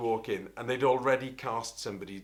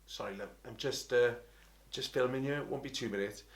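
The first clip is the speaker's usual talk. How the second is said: polite aside; 5 dB quieter than usual. Retold or imitated. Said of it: "I was like".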